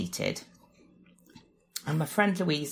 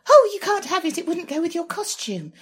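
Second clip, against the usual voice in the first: put-on much higher, flustered teenage voice; high pitch; 11 semitones higher, 3 dB louder than usual. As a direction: squeak it out like a blubbering teenager. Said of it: "that sort of high pitch".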